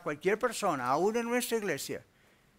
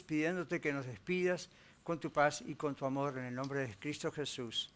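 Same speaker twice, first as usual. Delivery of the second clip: closing prayer. Real, not acted. Pastor thanking God at the close of the sermon, earnest prayer. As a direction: address God reverently on the congregation's behalf.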